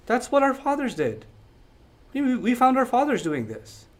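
mildly calm, matter-of-fact retelling; plain normal tone. Retold or imitated. People answering Ibrahim in a calm, ordinary tone. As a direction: shrug it off evenly. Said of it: "a very plain, normal tone".

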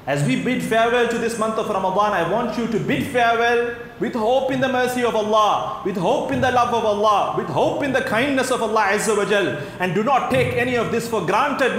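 preacher pressing an earnest appeal; impassioned preaching. Real, not acted. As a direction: urge the congregation on with rising fervour. Impassioned exhortation to congregation.

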